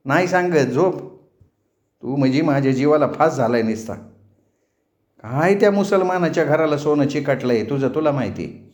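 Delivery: mild motherly grumbling; exasperated mother. Acted. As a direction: scold the daughter while covering for her. Narrator plays the exasperated mother.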